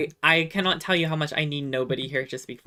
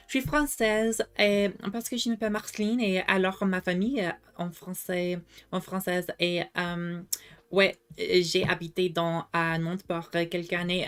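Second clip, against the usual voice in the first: pretend French girl; 3 semitones higher than usual. Streamer fooling people who don't speak French, lightly playing French. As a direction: casually pose as a native French speaker. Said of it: "me as a French girl".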